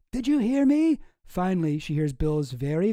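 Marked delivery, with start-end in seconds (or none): 0.1-1.0 high, loud, indignant demand; mock scream. Wife screaming at her silent husband on the phone, mock scream. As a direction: raise pitch and volume, demanding an answer. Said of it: "She screams again".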